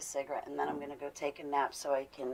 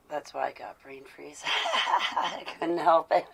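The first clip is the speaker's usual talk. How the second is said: laughing; 4 dB louder than usual. Real, not acted. Laughing about brain freeze.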